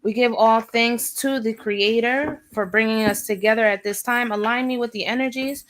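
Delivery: steady, low, measured invocation voice; prayer. Acted. Reader opening her live reading with a solemn prayer. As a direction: call on the spirits in solemn prayer.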